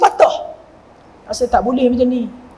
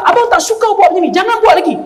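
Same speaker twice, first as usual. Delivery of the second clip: husband raising voice; 6 semitones higher, faster than usual. Retold or imitated. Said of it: "suami dia angkat suara".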